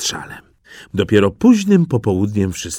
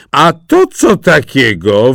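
exclaiming; 6 dB louder than usual. Acted. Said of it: "wykrzyknęła staruszka".

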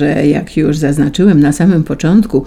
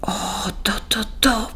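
much softer private thought; inner thought; 6 semitones higher, 8 dB quieter, faster than usual. A narrator's reading. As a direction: think it to yourself, eager. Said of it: "przemknęło mi przez głowę". (cicha myśl w głowie)

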